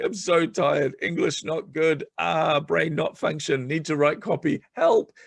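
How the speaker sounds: high, slow, frazzled broken-English plea; exhausted broken English. Retold or imitated. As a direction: play it worn out and barely coherent. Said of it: "I reached out to Lindsay one day and I'm like".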